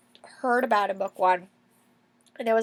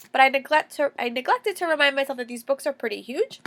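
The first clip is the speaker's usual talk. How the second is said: stuffy nose from a cold; congested. Real, not acted. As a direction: talk through a blocked nose. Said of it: "if I sound a little bit congested".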